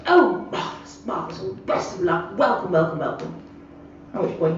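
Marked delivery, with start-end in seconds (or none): 0.1-3.3 hammed-up posh old man greeting a newcomer; posh gentleman. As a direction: lay on the posh welcome like a retired squire.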